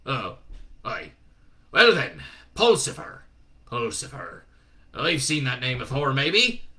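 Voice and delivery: gruff voice deflating, then loud again; a letdown old zealot; disappointed Shadwell. Acted. Shadwell on the phone, let down. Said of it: "sounded vaguely disappointed".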